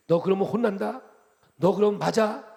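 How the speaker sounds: a gentle regional warning, lightly hammed; 어린애를 겁주는 듯한 충청도식 꾸중; Chungcheong-style scolding. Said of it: "이게 우리의 용어예요".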